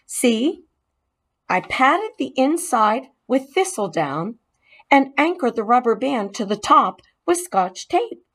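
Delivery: proud of his handiwork; lightly voiced boy Keith. Boy explaining the helmet to the mouse, eager.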